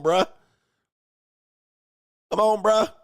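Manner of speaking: ordinary delivery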